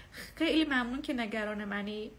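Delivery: slow, courteous thank-you; polite thanks. Shown as a demonstration. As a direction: thank them politely, unhurried. (تشکر محترمانه و آرام)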